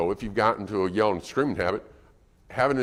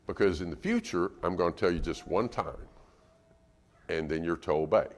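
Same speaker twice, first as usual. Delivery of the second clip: calm explaining; 5 semitones lower, 6 dB quieter than usual. Acted. Parent calmly explains new rule.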